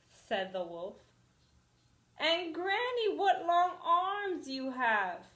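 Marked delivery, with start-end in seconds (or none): 2.2-5.3 higher, louder, slower wonder; alarmed girl. Acted. Girl questions Granny's long arms, alarmed. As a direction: sound more and more uneasy.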